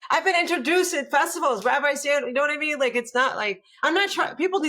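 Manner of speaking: high-pitched, laughing protest; amused, laughing. Real, not acted. Amused at her marker story.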